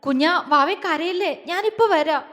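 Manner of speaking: anxious, affectionate reassurance; soothing. Acted. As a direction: coax a crying loved one to stop. Man soothes crying loved one.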